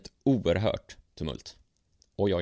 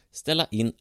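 doctor's voice; 8 semitones higher, 4 dB louder than usual. Acted. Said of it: "sa doktorn".

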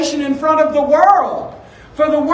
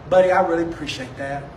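gentle parent correcting; 3 semitones lower than usual. Retold or imitated. Kind parent correcting a trying child.

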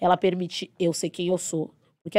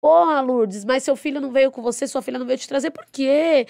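higher, louder indignant concern; caring indignation; 6 semitones higher, 4 dB louder than usual. Retold or imitated. The speaker asking patient why her children didn't come, indignant. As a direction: demand why nobody came with her. Voicing herself questioning the patient.

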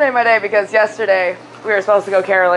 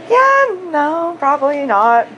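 reluctant refusal; 5 semitones higher, slower than usual. Retold or imitated. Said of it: "she was like".

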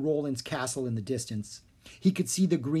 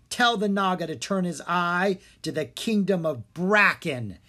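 commanding; 4 semitones higher, 4 dB louder than usual. Acted. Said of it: "he commanded".

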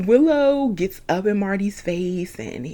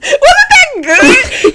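laughing; 8 dB louder, slower than usual. Real, not acted. Proud after her impression.

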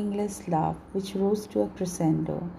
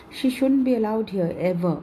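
commanding; 3 semitones higher, 4 dB louder than usual. Acted. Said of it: "he commanded to the staff".

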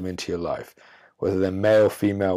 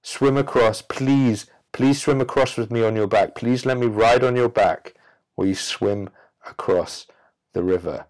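begging scorpion; 3 semitones higher than usual. Acted. Scorpion begging the frog to carry it across, pleading. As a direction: wheedle like a desperate scorpion. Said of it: "turns around to the frog and says".

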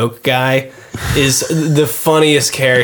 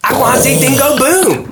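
put-on high babyish whine; whiny man-child; 12 semitones higher than usual. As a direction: whine it like a big baby. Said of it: "That's how he talks".

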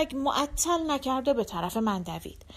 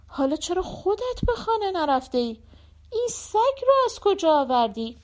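higher, louder voice of a cheerful friend; friend's voice; 6 semitones higher, 4 dB louder than usual. Acted. Friend in the taxi greets Shlemiel, higher and louder. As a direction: friend calls across from the taxi, brisk and lively.

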